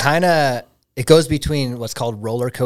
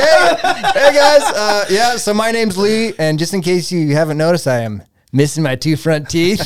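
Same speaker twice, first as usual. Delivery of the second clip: confident speaker; 5 semitones higher, 6 dB louder than usual. Retold or imitated. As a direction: own it boldly. Reenacting his speech.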